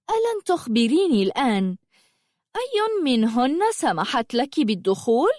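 teasing witch. Acted. Witch quizzing the intruder girl, teasing. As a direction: toy with her like a cat. Yaqut questions the stranger.

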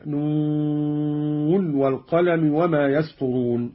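"نون والقلم" recited slowly with a clear N before W; unmerged n in "نون والقلم"; clear nun before waw. Shown as a demonstration. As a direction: hold "نون" long, sounding its final n distinctly. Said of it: "بإظهار النون من الواو".

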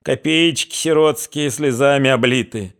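put-on slow, high, lamenting old crone; displeased old woman. A narrator's reading. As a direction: whine it like a poor old granny. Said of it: "с неудовольствием возразила старуха".

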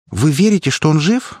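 a sudden hopeful plea, voice lifted high; с надеждой. A narrator's reading. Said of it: "подала голос Белка с надеждой". (с надеждой, высоко и чуть громче)

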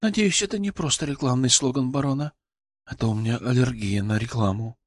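tired, quietly ironic jab; subtle irony. A narrator's reading. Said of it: "И с ноткой иронии, тонкой, но ощутимой".

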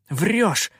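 high, angry accusation; hissed accusation. A narrator's reading. Попрыгун accuses the pirate of lying, hissing. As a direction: throw it back in anger. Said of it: "зашипел попрыгун".

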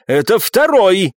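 high, stretched insistent cry; mild narrated shout of protest; shouting back. A narrator's reading. Viscount contradicting the captain, shouting back. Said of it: "не менее громко прокричал виконт".

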